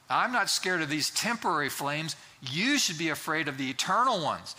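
firm, emphatic challenge to the executioners; bold defiance. Acted. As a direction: act out a martyr's defiant last words. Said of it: "pretty defiant".

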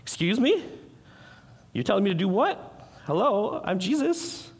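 how the preacher would answer Jesus if he were mad; indignant outrage. Retold or imitated. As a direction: play it like an insulted diva. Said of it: "I would've got mad".

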